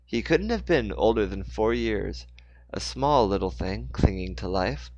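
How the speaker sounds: phrase-by-phrase storyteller read, strong openings; story narration. A narrator's reading. Narrator telling of Mister Moore's fall, story narration. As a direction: narrate the action with deliberate pauses.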